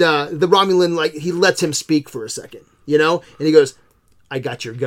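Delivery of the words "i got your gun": choked voice. Retold or imitated. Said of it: "He can't get the words out".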